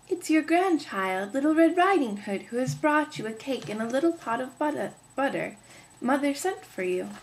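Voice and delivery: put-on sweet little girl at the door; a lightly voiced child.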